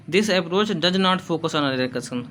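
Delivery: slow, careful dictation pace, said twice; teacher dictating notes. Shown as a demonstration. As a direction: read it slowly so students can write. Teacher dictating an English point.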